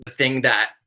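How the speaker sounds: talking through hiccups; hiccuping between words. Real, not acted. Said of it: "I got these hiccups".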